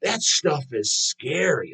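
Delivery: mock a fussy old teacher who fears metal. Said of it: "who I heard say it was, uh, one of the teachers".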